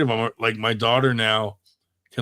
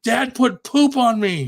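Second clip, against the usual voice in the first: put-on tattling little girl; 13 semitones higher, 7 dB louder than usual. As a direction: drag it out like a kid telling on dad. Daughter tattling to mom.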